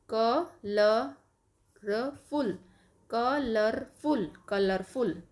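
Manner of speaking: कलरफुल drawn out slowly, syllable by syllable. Shown as a demonstration. Teacher spelling out the word for syllable claps. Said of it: "clap भी करना है for each syllable".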